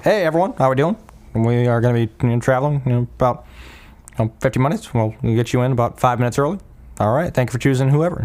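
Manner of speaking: lightly voiced airline pilot on the cabin announcement; a hint of casual pilot patter. Pilot greeting passengers with flight time, lightly put-on pilot voice. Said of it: "That is my pilot voice".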